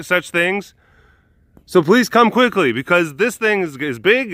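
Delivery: put-on high-pitched boy raising the alarm; hammed-up panicked crying wolf; mock yelling. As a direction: plead with the townspeople to come. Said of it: "the boy yells again".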